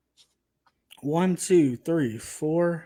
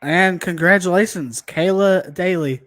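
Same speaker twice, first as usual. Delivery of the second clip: hyped giveaway announcement; 6 dB louder than usual. Real, not acted.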